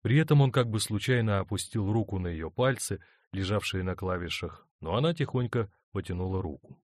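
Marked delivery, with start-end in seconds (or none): none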